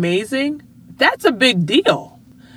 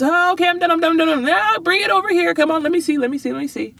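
put-on excited kid; 9 semitones higher, much faster than usual. Daughter and mom retold.

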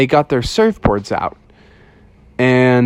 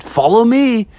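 tag; 9 semitones higher than usual. Acted. Ghost calls to the bears.

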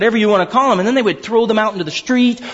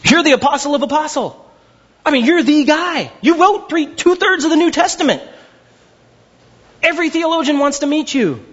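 playful outburst at the apostle; mock exasperated rebuke; 7 semitones higher than usual. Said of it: "I'm like".

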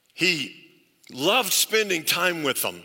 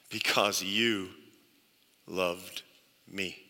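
quiet reverent quote; 10 semitones lower, 6 dB quieter, slower than usual. Retold or imitated. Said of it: "Jesus said".

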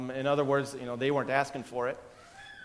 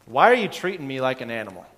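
complaining victim; 6 dB louder than usual. Retold or imitated. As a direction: plead with God like a self-pitying victim. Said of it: "are you perhaps telling him".

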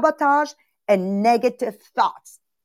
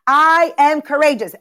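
higher and louder, full conviction; triumphant believing affirmation; convinced affirmation; 4 semitones higher, 5 dB louder than usual. Shown as a demonstration. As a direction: declare it like you finally believe it. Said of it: "I really begin to believe".

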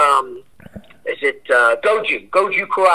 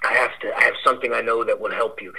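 low, softer confiding voice, lightly imitated; Steven Seagal; 4 semitones lower, 5 dB quieter than usual. Buddy leaning into a friend's ear to offer help, imitated low voice. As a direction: lean in close and talk low, slightly hammed. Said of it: "a real low kind of voice like that".

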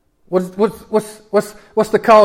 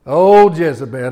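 slow scornful Jezebel; 4 dB louder, slower than usual. Shown as a demonstration. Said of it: "You got to say it like that".

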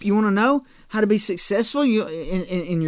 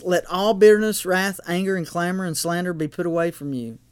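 scripture reading. Acted. Reads scripture aloud.

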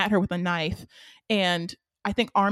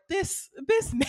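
laughing disbelief; 10 semitones higher than usual. Retold or imitated. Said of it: "I was like".

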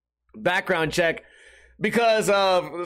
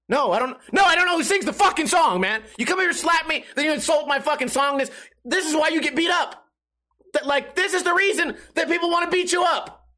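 high-pitched, heated rant; acted indignant tirade, pitched way up; angry outburst; 11 semitones higher than usual. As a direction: blow up at him in exasperation. Acted blow-up at pushy acquaintance.

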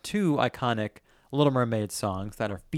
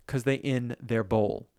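reciting lyrics; slower than usual. Shown as a demonstration. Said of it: "I guess I'm speaking this".

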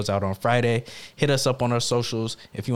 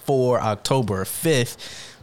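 town crier; slower than usual. Pretend. Podcast intro, hear ye announcement.

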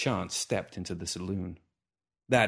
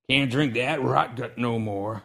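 grumbling; 3 semitones higher, 4 dB louder, slower than usual. Acted. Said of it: "Hooper grumbled".

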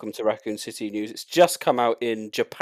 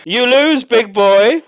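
menacing villain taunt; 10 semitones higher, 7 dB louder, slower than usual. Pretend. Host voices villain quip.

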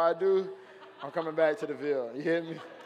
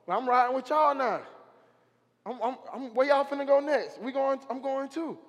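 excited Legion; 7 semitones higher, 3 dB louder than usual. Acted. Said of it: "Legion like".

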